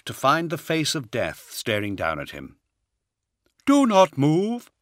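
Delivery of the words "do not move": high, slow, hollow unearthly voice. A narrator's reading. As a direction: speak hollow and slow, like death itself. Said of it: "in his hollow voice".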